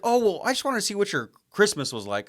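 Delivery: high, loud, sugary caller voice; mock salesman voice. Host mimicking the salesman's fake-sweet excuse, high and loud. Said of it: "And he's like".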